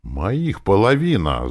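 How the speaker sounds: emphatic yell in thought; inward yell. A narrator's reading. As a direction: protest loudly inside your head. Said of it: "заорал я мысленно".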